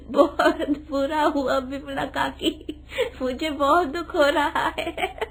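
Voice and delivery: sorry words through giggles; laughing condolences. Acted. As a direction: offer condolences while laughing. (हंसते हुए शोक जताना)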